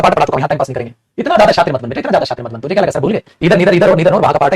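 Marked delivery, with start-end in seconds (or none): 2.0-2.6 half-muttered playful scolding; softer repeat. Shown as a demonstration. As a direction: lower and softer, teasing aside. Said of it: "repeated softer".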